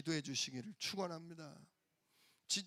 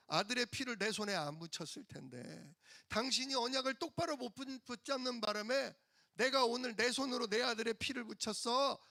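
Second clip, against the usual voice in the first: scolding wife; 5 semitones higher than usual. Retold or imitated. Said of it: "이렇게 얘기해요".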